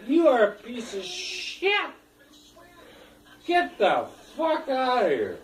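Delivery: retold yell. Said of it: "I told the fucking guy, I said".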